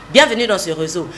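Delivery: bossy, order-like welcome; commanding. Shown as a demonstration. Voice coach showing the wrong read, as if giving orders. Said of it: "tu n'es pas en train de donner des ordres".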